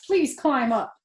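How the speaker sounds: a desperate little pig pleading for help; Wilbur pleading. Acted. Wilbur the pig begging the rat to climb up, pleading.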